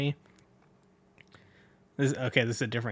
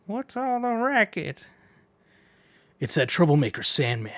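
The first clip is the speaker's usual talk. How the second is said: a gossiping woman asking about the noise; female voice; 4 semitones higher than usual. Acted. Reading a manga aloud, a woman's voice. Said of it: "I'm gonna have to do female voices too".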